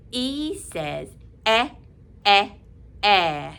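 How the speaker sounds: "eh" repeated slowly and clearly, last one firmer; repeated eh sound. Shown as a demonstration. Teacher drilling "eh" for the class, slow and clear.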